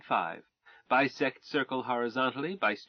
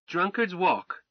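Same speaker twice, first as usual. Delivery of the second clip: sudden realization; 6 semitones higher, 4 dB louder, slower than usual. Acted. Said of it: "then suddenly said".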